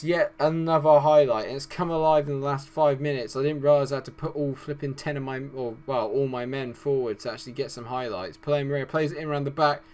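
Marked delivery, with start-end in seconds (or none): none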